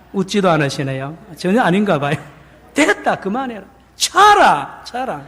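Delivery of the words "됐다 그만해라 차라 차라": an angry Busan man telling the sea to quit; Busan dialect rebuke. Pretend. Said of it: "부산 아저씨들 화나면 차라".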